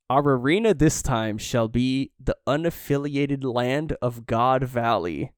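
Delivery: a hint of a grand master of ceremonies; competition announcer. Reads a competition announcer's speech.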